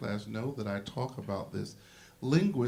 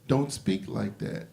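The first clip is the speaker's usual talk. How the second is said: chastising parent; 3 dB louder than usual. Retold or imitated. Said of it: "they chastised their children and said".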